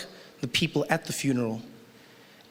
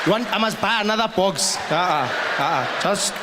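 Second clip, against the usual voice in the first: put-on voice of an objecting uncle; insistent uncle; 4 semitones higher than usual. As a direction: refuse stubbornly, like a thrifty uncle. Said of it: "one uncle who's like".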